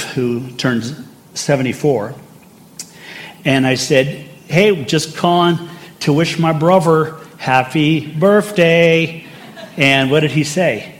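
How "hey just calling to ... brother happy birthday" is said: higher, playful Cockney greeting; hammed-up Cockney birthday wish, pitched up; Cockney accent. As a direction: put on a Cockney phone greeting, TH as V and F. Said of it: "That's the Cockney accent".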